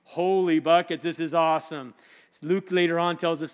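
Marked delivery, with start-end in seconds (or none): 0.0-1.9 slow, drawn-out amazement; awestruck. Acted. Peter seeing Moses and Elijah, awestruck. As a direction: marvel at it, stretching the words.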